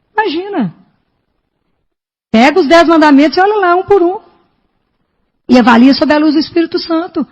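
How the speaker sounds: fervent sermon; preaching. Acted. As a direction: push the listeners to face their sins.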